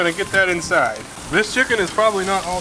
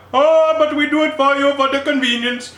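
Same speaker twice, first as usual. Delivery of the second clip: put-on Indian accent; 10 semitones higher, 3 dB louder than usual. Spice stand vendor selling spice buckets, mock Indian accent. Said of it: "maybe I will".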